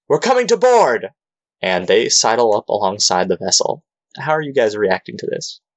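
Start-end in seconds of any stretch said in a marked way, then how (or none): 0.1-1.1 loud shout pitched way up. Storyteller voicing another ship's crew replying to the captain, shouting back. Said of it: "they shout back".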